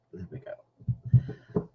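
slow, breathless, held breath; holding breath. Real, not acted. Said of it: "I'm holding my breath while I'm stamping".

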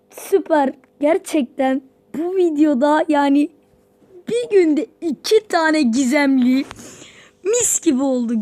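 loud, delighted gushing; thrilled loud gushing; excited. Real, not acted. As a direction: gush about the luck. Two mythics in one day.

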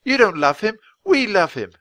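high, loud defiant shout; yelling. Acted. Annie yells at Bala and Grinda, loud. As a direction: throw it in their faces. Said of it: "Annie yelled".

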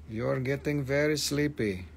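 lightly voiced stage hypnotist; mock hypnotist. Seller pretending to hypnotise sleepy viewers, mock hypnotist. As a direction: lull them with a measured mock-hypnotist delivery.

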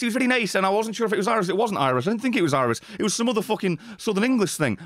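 rough, inaccurate Southern English accent impression; imitated British regional accent. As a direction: imitate an uncertain, not-quite-Irish accent. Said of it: "so the accent I've just done isn't accurate".

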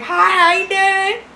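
high, slow, sing-song hello; high, slow, sing-song hello to a stranger calling her phone; sugary phone greeting. Retold or imitated. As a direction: answer the phone all sweet and innocent. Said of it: "I'd be like".

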